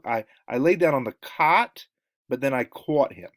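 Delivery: Wisconsin-style "cot" and "caught", clearly distinct; Wisconsin vowels. Shown as a demonstration. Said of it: "people from Wisconsin are gonna say".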